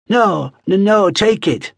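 high, stammering plea; frightened thief. Acted. Throttled thief gives up the ring.

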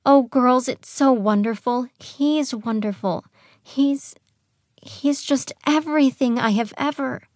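high, swooning happiness; breathy delight. A narrator's reading. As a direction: gush breathily about the one you love. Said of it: "she said in a breathy voice".

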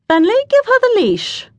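called-out order. A narrator's reading. Man calls order to kennelman.

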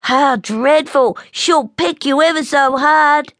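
high, alarmed little bear voice; high-pitched, worried cub, not whispered; alarmed young bear. A narrator's reading. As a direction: warn a friend in childlike dread. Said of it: "Snubby whispered".

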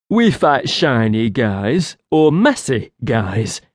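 slow lightly voiced creature; a hint of an eager creature; simple creature question. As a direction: ask it slowly and simply. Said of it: "Nita asked".

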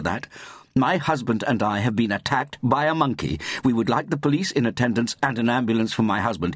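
high-pitched, insistent indignation; indignant snapping. A narrator's reading. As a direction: insist indignantly to the doubting police. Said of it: "snapped Mary".

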